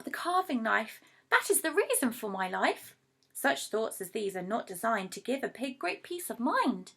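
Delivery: lively storybook reading of rhyming verse; reading to children. A narrator's reading. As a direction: read it like a bedtime rhyme for kids. Reads a poem to children.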